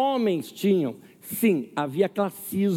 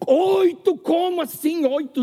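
surprised; 8 semitones higher, 4 dB louder, slower than usual. Retold or imitated. Vendor haggling over price.

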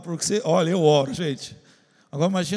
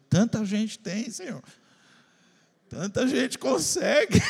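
mock complaint; slower than usual. Complaining to God.

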